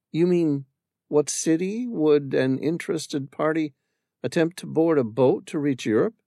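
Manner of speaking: put-on a young woman remembering her husband; Amira's voice. Amira telling the stranger about her late husband, wistful.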